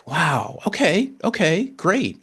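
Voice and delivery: light up as the plan clicks; excited. Retold or imitated. To himself, thrilled his wife showed a plan, excited. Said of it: "And I'm like".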